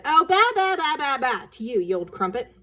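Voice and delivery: mocking child. Sister taunts brother, high and jeering. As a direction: jeer like an angry kid. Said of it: "quite red in the face".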